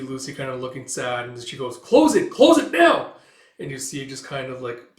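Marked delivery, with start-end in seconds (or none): 1.8-3.1 high, loud desperate yell; frantic command. Acted. Lucy ordering the rift closed, frantic high shout. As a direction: scream the order, rising higher.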